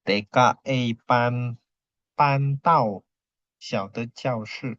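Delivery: T K E pan, pantau read slowly and firmly; model reading. Shown as a demonstration. Teacher reading the sentence for class, slow and deliberate.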